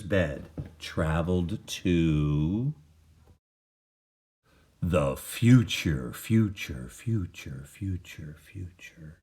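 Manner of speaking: slow echo fading away into the distance; echoing fade. A narrator's reading. Narrator carrying Walter's bed into the future, slow fading echo. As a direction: let the words echo and fade out. Time travel echo effect.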